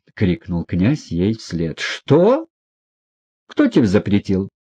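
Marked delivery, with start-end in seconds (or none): 1.8-4.5 much higher sharp start; stung surprise. A narrator's reading. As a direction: jolt as if pricked. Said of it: "точно её укололи иголкой". (вскрик, будто укололи иголкой)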